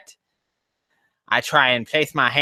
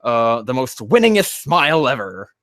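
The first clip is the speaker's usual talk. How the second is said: a light, lightly voiced Charlie Sheen grin; Charlie Sheen impression. Joking with Jakey, a hint of Charlie Sheen. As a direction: toss off a cocky Charlie Sheen line. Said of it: "my Charlie Sheen impression".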